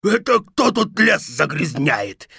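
mildly pained wolf complaint; a touch of a wounded wolf's howl. Acted. Wolf who slipped on an apple core, pained. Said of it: "взвыл волк от боли".

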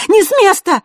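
резкий высокий громкий окрик; рявкни, чтобы он не двигался; рявкнула. A narrator's reading. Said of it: "рявкнула ему Василиса". (громкий резкий окрик)

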